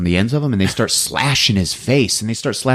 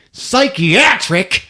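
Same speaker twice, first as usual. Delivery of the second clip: indignant disbelief; 9 semitones higher, much slower than usual. Retold or imitated. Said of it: "She's like".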